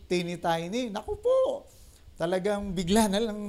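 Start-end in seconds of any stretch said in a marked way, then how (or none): 0.9-1.7 exclamation. Real, not acted. Exclaims over cat scratch.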